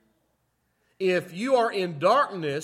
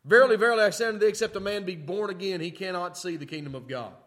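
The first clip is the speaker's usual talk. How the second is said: proclaiming loudly; 4 dB louder, faster than usual. Acted. Preacher quoting Jesus to the congregation, ringing proclamation. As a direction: ring out the opening verily, verily loud and strong.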